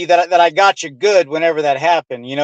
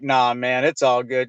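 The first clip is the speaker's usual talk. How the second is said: quiet inner thought; 7 semitones lower, 5 dB quieter than usual. Retold or imitated. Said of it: "and I'm like".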